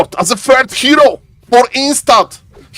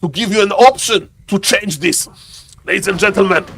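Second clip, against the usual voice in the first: deep put-on voice; 3 semitones lower than usual. Caster explains the perk voice to Mister Toothpaste, deep and put-on. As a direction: keep the special low voice going. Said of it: "That's why I'm talking like this".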